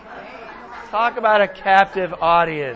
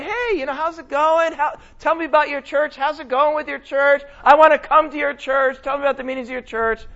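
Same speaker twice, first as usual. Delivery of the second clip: eager student; 5 semitones higher than usual. Retold or imitated. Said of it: "He's there".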